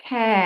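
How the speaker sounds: খ্যা with short open vowel; k-a blend demo; sound demo. Shown as a demonstration. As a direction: say খ্যা clipped. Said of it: "খেয়াল করো যে সাউন্ডটা কিভাবে হচ্ছে".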